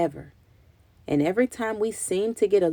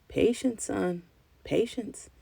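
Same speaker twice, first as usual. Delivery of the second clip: gentle reminder with a smile; 2 semitones higher, 6 dB quieter, slower than usual. A narrator's reading. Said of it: "he reminded me with a smile".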